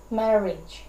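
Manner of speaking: "marriage" stressed on the first syllable; trochee stress. Shown as a demonstration. Teacher giving an example of a trochee, first-syllable stress on "marriage". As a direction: stress the start of "marriage", let the second syllable drop. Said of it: "one stressed syllable but followed by".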